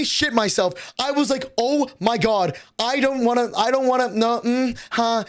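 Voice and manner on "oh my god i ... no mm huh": panicked. Retold or imitated. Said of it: "I started panicking".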